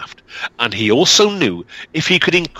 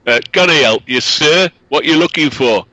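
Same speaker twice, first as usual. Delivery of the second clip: a touch louder, lightly voiced lad; boy at the cottage door; young boy; 3 semitones higher, 4 dB louder than usual. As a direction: answer the stranger warily.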